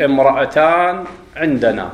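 slowly, امرأتان opened with a clear glottal stop; initial hamza. Shown as a demonstration. A teacher showing the class a hamza at the start of speech. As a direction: start the word with a pronounced hamza. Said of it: "إذا ابتدأت بها الكلام فتقول".

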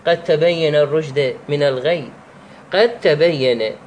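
drawn-out, measured recitation; slow Quran recitation. Shown as a demonstration. Teacher reciting an example verse slowly for students. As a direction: recite "قد تبين" very slowly and carefully. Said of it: "مثل قوله تعالى".

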